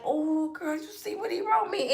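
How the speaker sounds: put-on excited girlfriend. Girl at school gushing over her letter, high and thrilled. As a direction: squeal it like a lovestruck teen girl.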